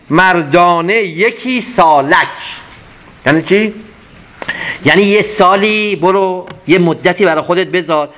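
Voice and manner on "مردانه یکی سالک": slow poem recitation. Acted. Teacher finishing the verse line, very slow. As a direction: stretch out مردانه یکی سالک very slowly, weight on یکی.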